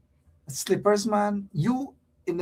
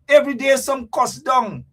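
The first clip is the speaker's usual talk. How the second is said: shouting; 5 semitones higher, 4 dB louder than usual. Real, not acted. Ranting about daily quarrels.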